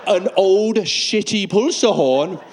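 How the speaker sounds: slow, drawn-out mock disgust; hammed-up incredulous interrogation, rising at the end; appalled officer. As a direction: hold up each find in slow disbelief. Acted officer disgusted by bag contents.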